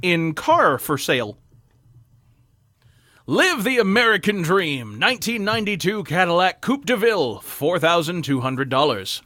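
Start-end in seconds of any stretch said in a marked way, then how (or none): 3.3-9.2 sentimental documentary voiceover; wistful narration. Acted. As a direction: read it like nostalgic ad copy. Reads a car ad as narration.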